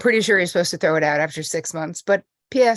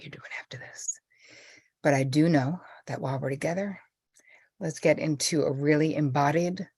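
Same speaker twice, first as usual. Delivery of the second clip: soft, settling meditation voice; unhurried, hushed guidance with pauses; guided meditation lead-in; 3 semitones lower, 3 dB quieter than usual. Real, not acted. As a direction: ease listeners gently into calm.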